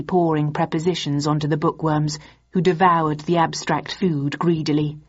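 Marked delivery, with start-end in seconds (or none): none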